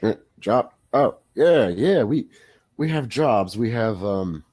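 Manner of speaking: lightly voiced drowsy old orc; halting old orc just roused from sleep. Sleepy orc answering adventurers about jobs, lightly voiced old orc. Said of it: "As a large orc lifts his head".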